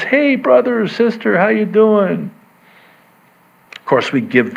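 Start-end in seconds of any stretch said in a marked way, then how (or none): 0.0-2.3 high-pitched, breezy church hello; chirpy greeter. Retold or imitated. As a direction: imitate an overly friendly greeter. Acting out a casual church greeter.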